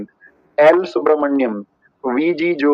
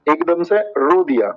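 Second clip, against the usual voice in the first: slower, stretched-out repeat of एकदम से रो दिया; 3 semitones higher, slower than usual. Shown as a demonstration. Teacher repeating the mnemonic to students, slowly. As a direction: drag out एकदम से रो दिया to drive it home. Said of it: "repeated at once, slower".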